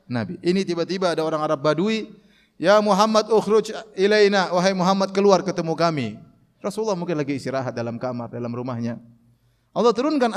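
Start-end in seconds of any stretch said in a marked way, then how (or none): 2.6-6.1 rude calling out. Retold or imitated. Bedouin calling rudely.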